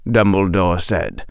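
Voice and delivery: usual speaking voice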